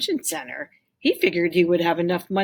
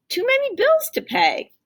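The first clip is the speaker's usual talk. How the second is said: mock grown-up sigh; 5 dB louder than usual. Tim repeats Dad's words.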